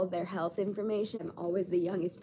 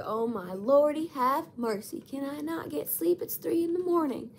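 exasperated; 7 semitones higher, 5 dB louder than usual. Retold or imitated. Acting out exasperation at night noise.

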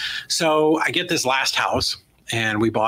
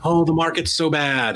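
mock whining; 5 semitones higher than usual. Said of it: "people crying on Facebook".

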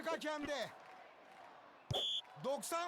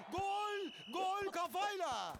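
screaming football commentator; 3 semitones higher, slower than usual. Acted. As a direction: stretch the goal shout. Commentator celebrating a headed goal.

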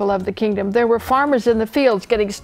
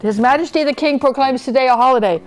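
raised, proclaiming voice; calling out; 5 semitones higher, 5 dB louder than usual. A narrator's reading. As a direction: announce it loudly to all. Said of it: "he called".

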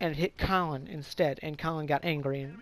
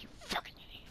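harsh unvoiced whisper, much softer; cursing under breath; 13 dB quieter, faster than usual. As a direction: hiss it privately at a friend.

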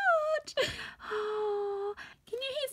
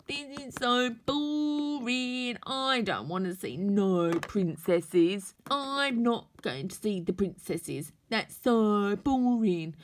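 bored; 5 semitones lower, slower than usual. Acted. Toy refuses to see princesses.

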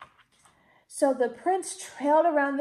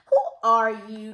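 gasping; 2 semitones lower, 6 dB louder than usual. A narrator's reading. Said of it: "gasped Cinderella".

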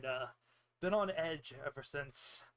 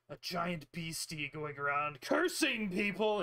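a touch of distress, drawn out slowly; slow, understated upset complaint; mildly distraught; 4 dB louder than usual. Acted. Landowner complaining about a beast cursing people, mildly distraught. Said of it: "he's clearly very distraught".

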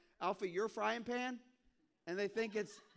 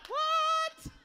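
pushed higher, loud squealed what; even higher what; 12 dB louder than usual. Shown as a demonstration. Pushing the joke, a louder, higher what. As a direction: take the what up further. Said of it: "I could go higher with it".

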